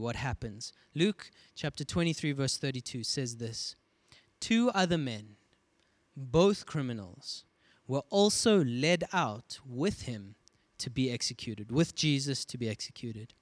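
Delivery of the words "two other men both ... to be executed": scripture reading. Acted. Reads scripture aloud.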